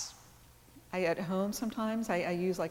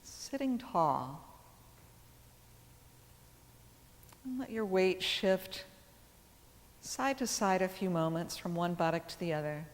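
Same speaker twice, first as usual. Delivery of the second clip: calm yoga teacher guiding breath awareness; measured phrases with long, settling pauses; guided meditation. Acted. Leads seated breath awareness.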